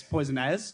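"as" ends in a buzzing z sound, "poison as". Shown as a demonstration. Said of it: "it's A Z, not A S".

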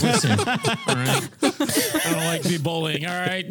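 laughing. Acted. Mock defending against bullying.

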